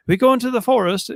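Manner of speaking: posh high-pitched British voice; playful high British accent. Retold or imitated. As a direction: say it like a lofty Englishman. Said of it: "with some sort of, like, high British accent".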